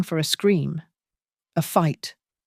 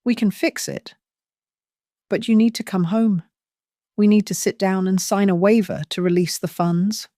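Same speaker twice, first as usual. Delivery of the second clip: urgent; 3 semitones higher than usual. Acted. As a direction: push her to come home, pitch climbing. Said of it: "urgency bleeding into his voice".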